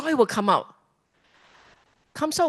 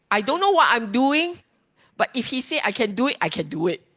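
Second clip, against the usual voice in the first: lightly voiced believer, higher; a hint of an eager student repeating the Buddha; trusting student voice; 4 semitones higher, faster than usual. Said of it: "You will talk like that".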